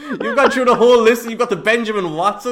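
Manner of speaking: loud, high-pitched disbelief; exasperated, amused outburst; incredulous. Real, not acted. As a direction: protest in laughing astonishment. Co-host's incredulous reaction to silly pick.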